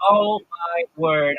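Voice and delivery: slow, drawn-out fan disbelief; mock amazement. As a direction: imitate an astonished fan, stretching each word. Retold amazed fan meeting streamer.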